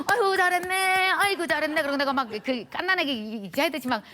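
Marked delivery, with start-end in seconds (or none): 0.1-1.8 doting praise. Retold or imitated. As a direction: gush as if praising a small child. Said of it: "막 귀여워하고 막".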